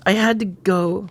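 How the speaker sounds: measured first-person story reading; story narration. A narrator's reading. Recalling the guilty evening after the encounter, in a measured narrating voice. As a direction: read it out as a confession from a story.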